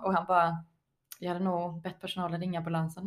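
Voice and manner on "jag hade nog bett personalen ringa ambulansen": deadpan imitation, slightly subdued; återge hans torra, stenseriösa svar; imiterat stenseriös. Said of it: "han bara så här var stenseriös". (stenseriöst härmande)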